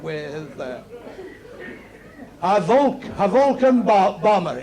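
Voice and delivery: stammer, breaking "Vulcan" and "bomber" after the first syllable; stuck on "Vulc-" and "bo-", then restarting the word; bad stutter. Drunk in the pub struggling to name the plane, stuttering. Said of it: "One stuttered very badly".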